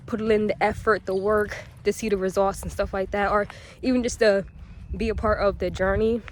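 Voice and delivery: slightly winded while walking; out of breath. Real, not acted. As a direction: talk while a bit out of breath. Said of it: "I don't know why I'm out of breath".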